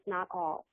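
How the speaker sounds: NOT ALL set apart, low and deliberate; stress on NOT ALL. Real, not acted. Teacher qualifying her point to listeners, stress on NOT ALL. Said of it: "and I stress this".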